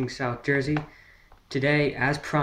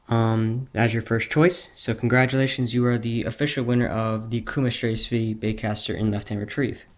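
hyped giveaway announcement; 4 dB louder than usual. Real, not acted. Announcing giveaway winner live.

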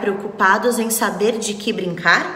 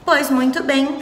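a touch of a gruff voice; deep voice; 5 semitones higher than usual. Acted. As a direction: say it with a lightly thickened voice. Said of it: "falou com voz grossa".

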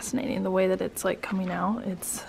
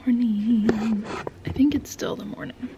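whispering. Real, not acted. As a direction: whisper so nobody wakes. Early morning whisper vlog.

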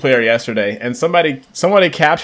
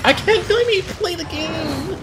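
frustrated squeak; 4 dB quieter than usual. Real, not acted. Frustrated while getting beaten in game.

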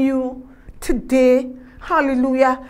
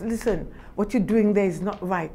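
still small voice; 4 semitones lower, 6 dB quieter than usual. Acted. Voicing God's still small voice.

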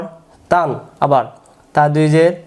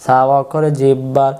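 slow, measured rule recital with stretched syllables; memorisation recitation; slower than usual. Shown as a demonstration. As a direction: recite it slowly so pupils can memorise it. (ধীরে টেনে টেনে মুখস্থ পড়ানো)

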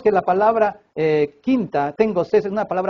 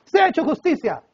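judges' verdict; 3 semitones higher than usual. Acted. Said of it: "los representantes de Poncio Pilatos".

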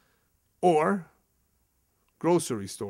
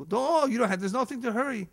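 fake courtesy; 9 semitones higher than usual. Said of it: "they talk like that".

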